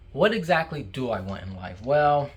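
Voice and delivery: talking through a mouthful of food; mouth full. Real, not acted. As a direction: say it while still chewing. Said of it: "it's not polite to talk with your mouth full".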